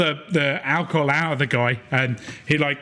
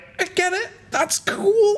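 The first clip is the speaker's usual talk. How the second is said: very high, squashed man's voice, sounding crushed. Voicing a guy slowly getting crushed by a tree: voicing a man being crushed. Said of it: "slowly getting crushed by your tree is like".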